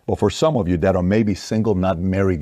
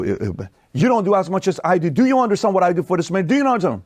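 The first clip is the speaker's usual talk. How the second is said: much higher indignant wife's voice, a bit fast; complaining wife; 9 semitones higher than usual. Retold or imitated. Host mimics a wife listing what she does, high and indignant. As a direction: whine that you do everything for him. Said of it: "and then, you know".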